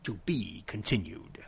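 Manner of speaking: breathy dramatic whisper. Acted. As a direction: whisper it like a cliffhanger. Dramatic episode sign-off.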